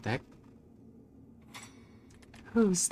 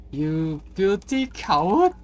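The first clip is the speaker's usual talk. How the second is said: slow accusing shout; 3 semitones higher, 6 dB louder, slower than usual. Acted. Game character accuses player.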